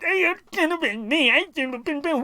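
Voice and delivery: whiny mock sob, dragging the words; sarcastic crybaby impression; mock crying whine. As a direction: whimper it like a jealous kid. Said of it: "now you're gonna cry about it".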